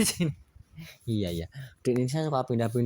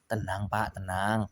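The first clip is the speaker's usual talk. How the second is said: calming; 3 semitones lower, 4 dB quieter, slower than usual. Acted. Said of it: "katanya gitu".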